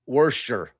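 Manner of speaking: Worcester said as wer-ster with an R; Worcester spoken as wer-stuh, R sounded; wrong guess. Shown as a demonstration.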